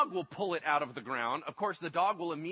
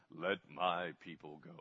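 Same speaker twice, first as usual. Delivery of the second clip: very deep, soft, low voice; 12 semitones lower, 7 dB quieter than usual. A parent demonstrates the voice their daughter calls their God voice. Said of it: "refers that to as my God voice".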